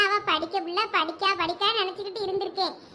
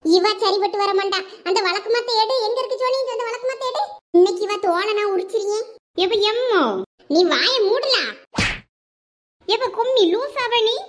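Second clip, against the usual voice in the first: louder, furious orders; angry shouting; 3 dB louder than usual. Acted. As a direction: yell for the broom. Mother shouting for the broom.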